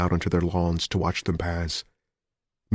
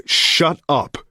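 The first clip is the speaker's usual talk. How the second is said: loud, higher shout; sharp shout; 8 semitones higher, 5 dB louder than usual. A narrator's reading. Richards shouts down the doubting newsman. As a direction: cut him off hard.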